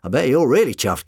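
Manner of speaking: swooping high, loud admiration; mock-impressed, high and showy. A narrator's reading. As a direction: gush with exaggerated awe. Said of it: "sounding impressed".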